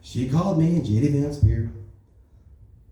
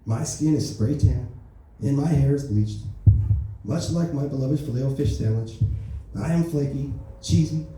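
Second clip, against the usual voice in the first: lightly voiced Trump, smug and boastful; a hint of Trump bragging to the peasants; Donald Trump impression. President Trump brags to the public, lightly voiced Trump. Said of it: "that's the end of my Donald Trump jokes".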